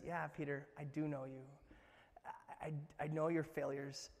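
a hint of a gentle Jesus reassuring. Jesus answers Peter gently.

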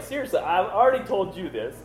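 fed up that he must tell it again; exasperated retelling. Retold or imitated. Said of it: "The guy's like".

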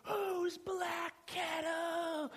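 high, very drawn-out exasperated question; hammed-up high exasperated cry; frustrated woman imitated. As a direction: stretch every word in mock frustration. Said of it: "she got so frustrated".

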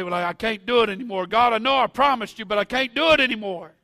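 rising to a loud, pleading cry; despairing cry. Retold or imitated. Believer at the altar tells God, loud anguished plea. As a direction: cry out that you can't go on.

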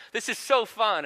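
put-on high-pitched copycat child voice; echoing little sister. Three-year-old echoing her big sister, imitated excited squeal. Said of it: "there's echo of Gemma going".

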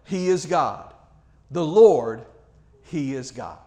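measured, solemn reading of a Bible passage; steady, earnest scripture reading. A narrator's reading. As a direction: read it like the lesson from the pulpit.

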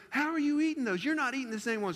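high-pitched mock disbelief; incredulous kid. JoJo questioning his youth pastor, incredulous. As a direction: imitate an incredulous boy's challenge.

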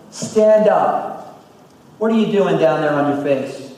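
voicing God with rising force; preaching scripture. Pastor reading God's rebuke to Joshua, preached firmly. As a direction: proclaim the Lord's words firmly.

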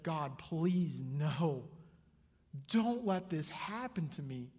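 rising, urgent prayer for mercy; desperate pleading. Acted. Acting disciples begging God on their knees.

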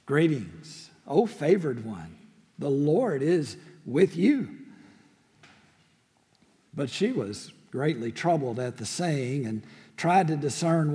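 measured, solemn Bible reading; scripture reading. Acted. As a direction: read the passage with reverence. Pastor reads scripture aloud.

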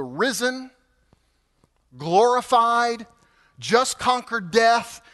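slow, weighty build. Real, not acted. Building praise of risen Jesus.

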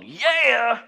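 pumped-up "Yeah!" shout; hype-man yell. Retold or imitated. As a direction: throw it out to the crowd. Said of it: "Which then is followed".

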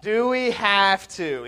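put-on slow whining child; whiny kid voice. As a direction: whine it like a sulky kid. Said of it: "in this whiny voice be like".

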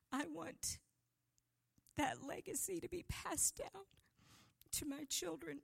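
breathy whisper, choked with feeling; emotional whisper. Real, not acted. Preacher whispers her hope to the congregation.

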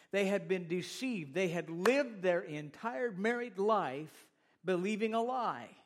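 rising pulpit fervor; earnest, insistent sermon delivery; emphatic preaching. Real, not acted. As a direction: drive the point home to the congregation. Preaching builds on deception.

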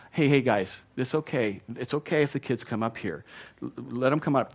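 put-on calmly waving the kids forward with no fuss; mild gentle reassurance. Jesus as he did not speak, gently soothing his disciples. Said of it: "This is not him saying".

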